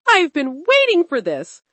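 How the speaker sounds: can't wait another second; eager excitement. Acted. Girl bursting with eagerness to sneak out, excited.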